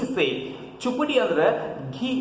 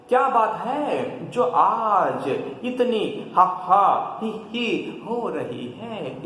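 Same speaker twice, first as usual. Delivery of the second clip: curious question; 4 semitones higher, slower than usual. Acted. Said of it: "दोनों मिलकर क्या करते हैं? प्रश्न करते हैं".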